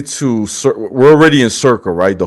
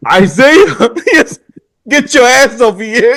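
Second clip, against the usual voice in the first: much higher, amused hyped call; excited boss voice; 12 semitones higher than usual. Retold or imitated. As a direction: shout for Isaiah like a pumped-up boss. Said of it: "He said".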